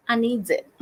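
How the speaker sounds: playful whine. Pretend. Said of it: "I put this one in a big cup 'cause".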